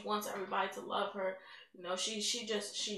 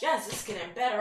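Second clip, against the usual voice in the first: hopeful exclaim; 6 dB louder than usual. Retold or imitated. Renewed faith after healing.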